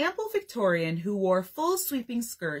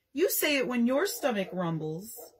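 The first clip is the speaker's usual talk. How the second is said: put-on sobbing child; 3 semitones higher than usual. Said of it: "Jack sobbed".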